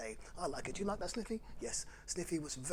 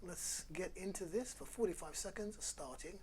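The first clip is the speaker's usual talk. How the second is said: calm guided wind-down. Acted. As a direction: ease the kids into stillness, fading to near silence. Leads a moment of calm.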